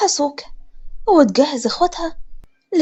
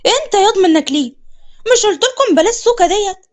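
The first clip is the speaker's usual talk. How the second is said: higher sharp scolding; changing the subject with a sharp tone; 4 semitones higher than usual. Acted. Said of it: "وكملت بحدة". (بحدة)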